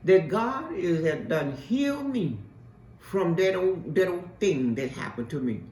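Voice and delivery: lightly voiced old lady; imitating old lady. Preacher quoting her ninety-five-year-old client, mild imitation. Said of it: "this is the way she talked".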